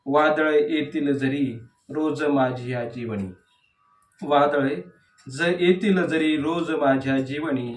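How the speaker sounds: measured verse reading with falling line endings; declaimed poetry, leaning on each opening word; poem recitation. Acted. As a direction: recite the verse line by line, pausing between phrases. Recites second poem aloud.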